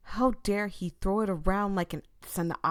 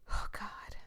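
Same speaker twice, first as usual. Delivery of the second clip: breathless horrified whisper; shocked whisper; 7 dB quieter than usual. Real, not acted. Horrified whisper over his dead friend. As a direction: barely voice it, stunned.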